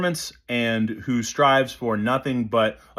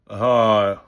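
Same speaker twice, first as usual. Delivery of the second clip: dropped-jaw "uh"; 3 semitones lower than usual. Shown as a demonstration. Coach showing what we want to do, relaxed open "uh". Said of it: "What we wanna do".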